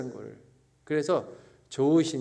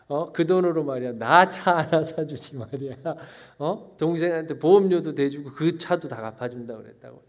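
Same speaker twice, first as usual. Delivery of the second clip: 약간 언성을 높여 투덜대듯 따지기; 부모에게 서운함을 쏟던 자신을 가볍게 재연; 따지며 성질부리는 흉내; 2 semitones higher, 4 dB louder than usual. Retold or imitated. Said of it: "정말 지랄을 했던 부끄러운 역사가". (살짝 화난 척 따져 묻기)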